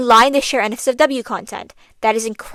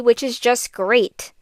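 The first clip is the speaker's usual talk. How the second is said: slow, drawn-out sarcastic remark; heavy sarcasm; slower than usual. Real, not acted. Commentator mocking the people spreading it, with heavy sarcasm. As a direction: say it slowly, dripping with sarcasm. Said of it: "I say that with heavy sarcasm".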